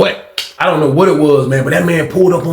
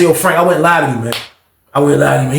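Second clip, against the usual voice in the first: calmed down; faster than usual. Retold or imitated. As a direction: settle it down: "I wouldn't lie to you". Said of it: "I tried to slow it down".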